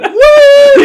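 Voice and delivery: very high, loud party whoop; over-the-top falsetto holler; Gabe. Retold or imitated. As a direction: shriek a mock celebration whoop. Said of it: "you could just hear".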